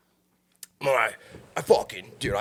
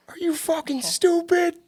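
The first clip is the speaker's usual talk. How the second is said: much higher, slow, incredulous mock outburst; retold angry yell; slower than usual. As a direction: fire it back in disbelief, half-mocking. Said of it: "I was mad".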